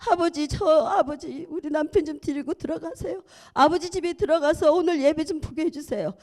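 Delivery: a weeping wife pleading with God for her husband; tearful pleading prayer. Retold or imitated. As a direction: beg through tears, voice rising. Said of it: "울었습니다".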